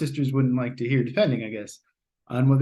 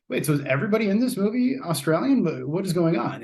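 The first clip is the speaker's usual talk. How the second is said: higher-pitched puzzled questioning; mildly baffled; 5 semitones higher than usual. Retold or imitated. Viewer puzzled by all the Australian accents, mildly baffled. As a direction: lift the question in mock confusion.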